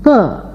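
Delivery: க lightly, without any strain; effortless k. Shown as a demonstration. Teacher showing learners the first consonant, effortless "ka" for க. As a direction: say க as simple "ka", no puff of air. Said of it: "எந்தவித சிரமமும் இல்லாமல்".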